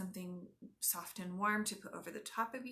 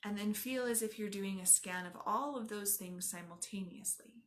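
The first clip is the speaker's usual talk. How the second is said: unhurried yoga nidra guide; guided meditation; 3 dB quieter than usual. Acted. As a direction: guide them gently inward, leaving space after each instruction.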